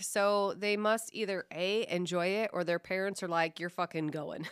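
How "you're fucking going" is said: ordinary talk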